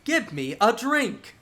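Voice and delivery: loud, slow ogre-like man; yelling ogre. Acted. Scary ogre demanding a drink at the bar, mock yell. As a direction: bellow your order slowly at the bartender. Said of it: "he yells at the bartender and goes".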